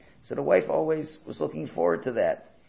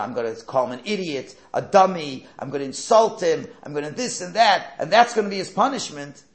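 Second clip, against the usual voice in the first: louder, heated threats; mock harsh parent; 2 semitones higher, 6 dB louder than usual. Shown as a demonstration. Cruel parent threatening to insult the child, louder and heated. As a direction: rant like a parent bent on humiliating the kid.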